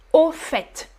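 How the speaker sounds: crisp T closing FAIT; FAIT with sounded T. Shown as a demonstration. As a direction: say AU FAIT as "oh fett". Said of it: "You pronounce the T".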